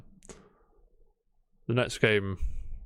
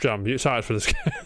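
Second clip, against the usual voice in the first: breaking into laughter mid-question; can't keep a straight face; laughing. Real, not acted. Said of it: "can't even say it with a straight face".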